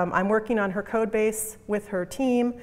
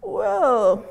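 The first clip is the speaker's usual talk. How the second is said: lightly imitated British hesitation, higher and louder; drawn-out thoughtful British "well"; British man; 7 semitones higher, 5 dB louder than usual. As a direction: speaker imitating Adrian Cockcroft's reply. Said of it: "he's British, right?".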